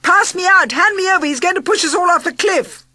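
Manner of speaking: high, loud, near tears; terrified crying shout. A narrator's reading. Narrator begging to be handed out before the fall, terrified. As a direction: beg in terror. Narrator panicking over the cliff.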